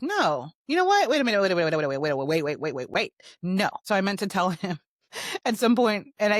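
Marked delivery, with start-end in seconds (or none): 0.0-3.7 sudden realization. Retold or imitated. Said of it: "I thought about it and I was like".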